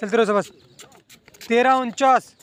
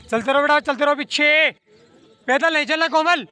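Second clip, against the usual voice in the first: higher-pitched urging call to runners; coach's insistent call, pitched up to carry; calling out orders; 3 semitones higher than usual. Real, not acted. Coach tells Komal not to walk, calling out.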